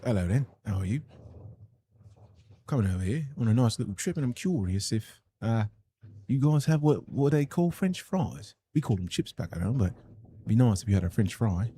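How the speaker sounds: a mild put-on British accent; an American lightly faking a British accent. American streamer showing chat his British accent, only lightly done. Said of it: "An American trying to sound British".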